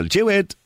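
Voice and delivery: "Jewett" in two syllables for Jude; high-pitched JEW-it, imitating Irish callers; Irish mispronunciation. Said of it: "Some Irish people".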